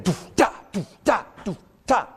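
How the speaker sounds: doof da doof da with accent on da; syncopated beat vocalized. Shown as a demonstration. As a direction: sing the drum pattern, punch the da. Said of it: "the syncopated rhythm will be going".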